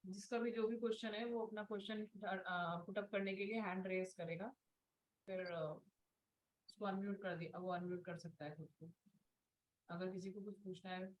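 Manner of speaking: faint voice, far from the mic; too soft for the class to hear; barely audible. Real, not acted. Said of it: "ma'am, आपकी आवाज कम आ रही है".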